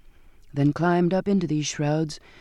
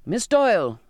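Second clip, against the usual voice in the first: sharp raised call across the deck; 3 semitones higher, 4 dB louder than usual. Acted. Captain halting the girl as she leaves, called out loudly. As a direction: call her name out loud. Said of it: "the captain cried out".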